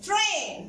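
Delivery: "train" with a clear letter-name A; long A sound. Shown as a demonstration. Teacher repeating the phonics rule, long A in "train". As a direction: stretch the A in "train". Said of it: "ال A لما جه معاها I بقت A".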